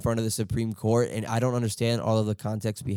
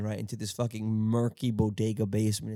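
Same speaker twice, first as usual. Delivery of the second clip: ordinary talk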